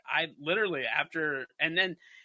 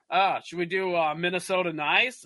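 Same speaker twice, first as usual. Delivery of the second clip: mock Minnesota cop; 4 semitones higher, 4 dB louder than usual. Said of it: "strong Minnesota accents".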